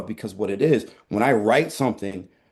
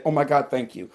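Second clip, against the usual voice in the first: trauma voice Andrew; 3 semitones higher than usual. Pretend. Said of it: "That's him".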